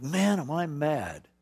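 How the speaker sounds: mock venting, words drawn out slowly; mad. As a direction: act out mild anger, stretching the words. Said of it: "really feel".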